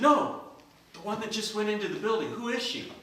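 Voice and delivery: eager. Acted. Johnny asks about Anna.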